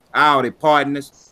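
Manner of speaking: slow cowboy drawl, lightly done. Pretend. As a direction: ease into a lazy cowboy greeting. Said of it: "I'm supposed to do my cowboy voice".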